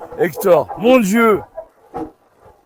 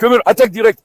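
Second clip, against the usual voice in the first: barked-out attack order, louder; loud command; 5 dB louder, faster than usual. Real, not acted. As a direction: order the dog in firmly. (ordre lancé fort au chien)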